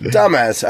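"dumbass" said as DAH-mez; stress on first syllable. Shown as a demonstration. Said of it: "now it is dumbass".

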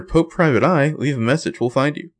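a hint of a recorded phone greeting; lightly voiced answering message. Private eye's agency answers her call, lightly voiced greeting.

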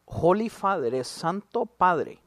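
hushed, drawn-out title with exaggerated awe; whispered start, then slow and mock-solemn; mock reverence. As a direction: imitate people addressing someone holy. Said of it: "¿por qué les hablan así?".

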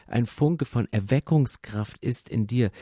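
usual speaking voice

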